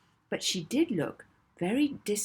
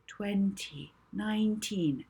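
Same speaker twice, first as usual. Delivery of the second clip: soothing voice; 3 semitones higher, slower than usual. Acted. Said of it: "her most soothing voice".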